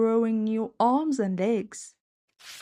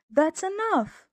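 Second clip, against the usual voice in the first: shouting; 8 semitones higher than usual. Acted. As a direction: yell to make it stop. Max shouting at the broom.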